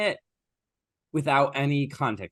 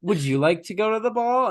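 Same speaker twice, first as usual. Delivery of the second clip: mock stepsister; 10 semitones higher, 4 dB louder than usual. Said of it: "And like".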